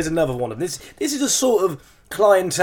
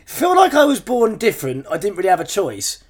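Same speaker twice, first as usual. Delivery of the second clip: pitched up at first, then settling; incredulous rereading; 3 semitones higher than usual. Retold or imitated. Podcaster rereading a caption to co-host, incredulous. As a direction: read it back in mock bafflement.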